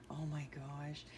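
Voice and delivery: breathy whisper of awe; whispered oh my gosh. Real, not acted. Mother whispering over her daughter's baby photos, awed.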